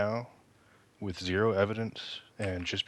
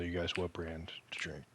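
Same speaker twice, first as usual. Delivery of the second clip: conspiratorial whisper aside; 6 dB quieter than usual. Real, not acted. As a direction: whisper it like a secret. Secretive aside about tea brand.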